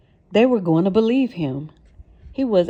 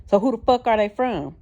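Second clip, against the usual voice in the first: angry yell; 5 semitones higher than usual. A narrator's reading. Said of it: "Sean yelled".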